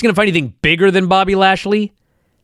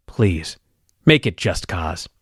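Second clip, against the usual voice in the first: pleading officiant; 9 semitones lower, 6 dB quieter, slower than usual. Retold or imitated.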